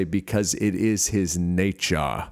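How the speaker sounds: slow, lightly imitated African accent. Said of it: "in their cool African accent".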